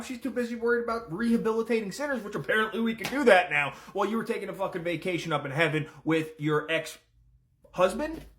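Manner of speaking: hammed-up husband lashing back, sheepish then ranting; defensive rant. Lucifer answering his returned wife, hammed-up defensive rant. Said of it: "And Lucifer responds with".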